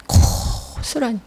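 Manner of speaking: slow, breathy whisper on 고스란히; hushed emphasis. Acted. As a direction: let 고스란히 drop to a hush.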